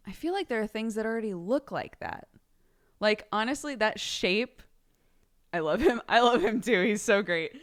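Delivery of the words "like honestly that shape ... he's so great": loud, laughing adoration; gushing laugh. Real, not acted. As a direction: gush with giggles. Gushing over character.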